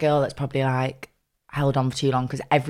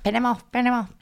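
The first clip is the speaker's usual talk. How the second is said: urging friends; 10 semitones higher than usual. Retold or imitated. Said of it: "so many people around me like".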